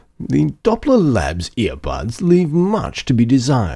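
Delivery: put-on snotty, posh British accent, sing-song. Reading a line about earbuds on request, snotty british accent. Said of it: "Please read this in a snotty British accent".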